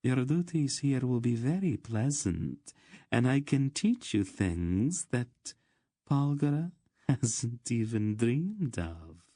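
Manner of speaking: silky, teasing promise; purring. Acted. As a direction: lure them in, drawing out the ends. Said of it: "she purred at him".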